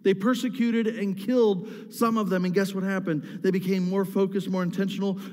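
building sermon, pitch climbing on unified and together; preaching. Acted. Pastor urging the church about unity, preaching with growing force. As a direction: preach it, driving each they were.

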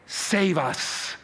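drawn-out plea with long falls; crying out. Acted. Pastor voices the crowd crying Hosanna, drawn-out plea. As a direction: plead it slowly, letting each plea ring. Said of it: "they were crying".

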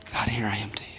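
very soft, low murmured prayer; humble prayer. Acted. Believer submitting to God, hushed and humble. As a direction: drop right down in quiet surrender.

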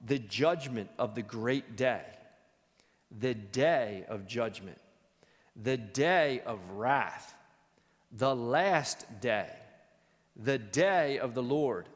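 slow, weighty naming of each day; grave, drawn-out list; solemn slow litany. Real, not acted. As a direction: intone every name like a bell.

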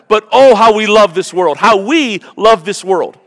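high, loud, drawn-out lament; passionate lament. Acted. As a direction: mourn our love of this world. Lament about loving the world.

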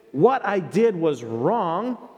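slow, deliberate admission; owning it plainly, word by word; sincere admission. Shown as a demonstration. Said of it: "We say".

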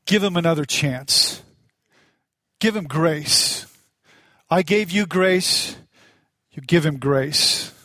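slow, measured words with long pauses; lightly voiced divine counsel, slow and deliberate; God speaking. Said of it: "I felt God say".

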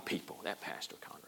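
very low, hushed, quick mock grumble; grumbling under breath. Upset church member complaining about the pastor, muttered. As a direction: imitate muttering about someone behind their back.

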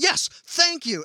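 pitched high, slow smug agreement; mock Job agreeing. Job cheering Elihu on from the background, smug high aside. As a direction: chime in like a vindicated friend. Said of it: "hear Job in the background saying".

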